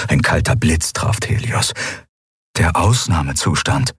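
ordinary delivery, nothing marked

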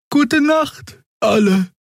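very high, slow goodnight; sleepy farewell to the crew; Xea's goodnight. Acted. Xea verabschiedet sich. (sehr hoch, müde: Gute Nacht)

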